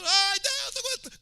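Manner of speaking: high, loud cry to heaven; acted prayer shout. Acting a believer crying to God on the mount, shouting. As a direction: wail it out like someone crying on a hilltop. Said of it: "Aí grita, grita".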